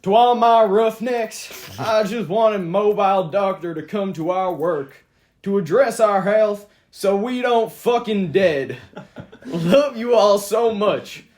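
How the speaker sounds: put-on slow drawling redneck accent. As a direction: read it like a redneck trucker. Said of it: "like, a redneck accent?".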